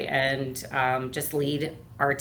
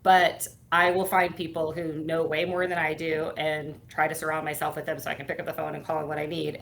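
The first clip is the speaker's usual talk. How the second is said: normal talking voice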